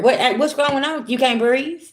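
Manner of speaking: a pointed, mock-sympathetic jab; mocking taunt. Taunting someone now under stress.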